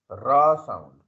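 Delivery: "raw" with a firm opening R; R sound. Shown as a demonstration. Teacher explaining letter sounds to students, clear R in "raw". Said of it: "The letter R produces a raw sound".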